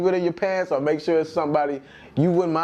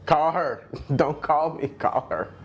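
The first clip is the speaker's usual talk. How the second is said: giggling through the line; laughing retelling; slower than usual. Retold or imitated. Laughing at a friend who dodged the call. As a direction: repeats it while laughing. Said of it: "The first thing he said was".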